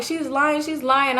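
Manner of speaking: a touch of whiny disbelief; retold crying. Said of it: "I'm crying".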